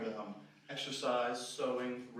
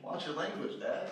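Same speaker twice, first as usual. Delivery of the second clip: put-on child scolding dad; 4 semitones higher, slower than usual. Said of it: "As a child, I always say".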